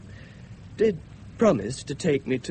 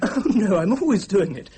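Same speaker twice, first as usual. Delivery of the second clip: nervous laugh; 4 semitones higher, 5 dB louder than usual. Acted. Nervous boy bluffing with a laugh.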